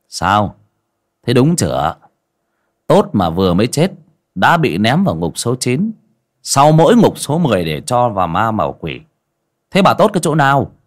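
shaman mocking the ghost's claim to be good; scolding interrogation. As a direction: grill her harder each line.

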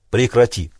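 ordinary delivery, nothing marked

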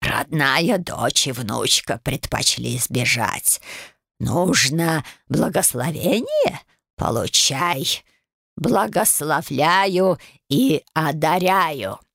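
slow, wheezy scolding of a brat; a nasty old ghost hissing at the girl; wheezing old crone. Acted. Ghost grants a blessing. (прабабка сипло бранит правнучку)

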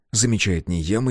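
ordinary delivery

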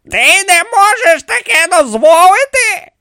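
high, loud challenge; indignant echo. A narrator's reading. Pharaoh challenges the priest's refusal, indignant. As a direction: throw the words back forcefully.

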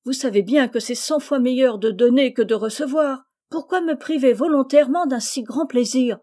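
plus aigu et plus fort, plein d'entrain; eager proposal. Acted. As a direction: convaincre avec enthousiasme. Rose eagerly proposes teaching. (proposer avec entrain, voix plus haute)

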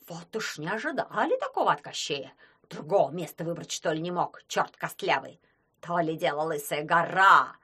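indignant grumbling. Acted. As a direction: complain like a cranky demon. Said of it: "Возмущались одни".

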